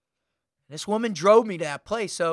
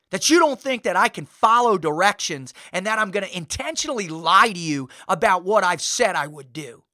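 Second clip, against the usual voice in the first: retold righteous outrage, punching key words; indignant. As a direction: defend your honor with forceful emphasis. Retold indignant defense of his integrity.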